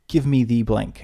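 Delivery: plain, direct demand; curt request without politeness; blunt direct order. Shown as a demonstration. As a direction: state it bluntly, no softening. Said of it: "It's also quite direct".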